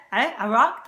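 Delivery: Iraq with throaty opening vowel; Arabic opening sound. Shown as a demonstration. Cook showing the hard sound, throaty vowel. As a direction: say "I, Iraq" isolating the first sound. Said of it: "if you can't say".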